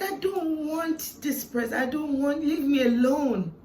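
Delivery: retold protest. She recalls telling God to leave her alone, protesting.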